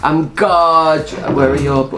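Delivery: slow, put-on Geordie preening; Geordie accent. Co-host admiring themselves as a Geordie singer, Geordie accent. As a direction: stretch it out in mock Geordie. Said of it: "start talking like Geordie".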